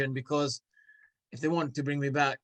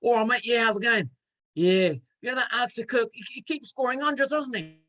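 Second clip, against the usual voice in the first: high-pitched Cockney impression; Cockney cricket chat, pitched up; Cockney accent; 6 semitones higher than usual. Shown as a demonstration. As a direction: put on a chirpy, higher Cockney voice. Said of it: "do a cocktail".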